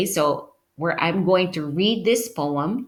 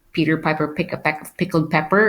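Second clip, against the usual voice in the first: tongue twister; much faster than usual. Shown as a demonstration. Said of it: "each word begins with the same letter".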